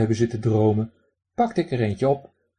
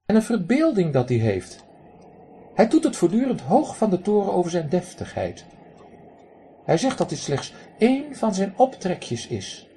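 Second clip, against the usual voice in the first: raspy quacking duck; 8 semitones higher than usual. Acted. Drake lectures the man who threw pebbles, high raspy quack. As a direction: play a cheeky drake scolding a stranger.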